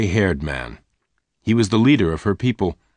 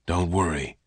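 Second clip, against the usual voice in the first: calm her quietly; 4 dB quieter than usual. Acted. Lassiter soothes Jane.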